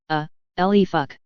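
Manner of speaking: slow, hammed-up French accent drawling the words; a lazy fake French accent, dragged out; mock French accent. Hungover god dodging an angry mother, in mock French accent. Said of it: "in his best French accent".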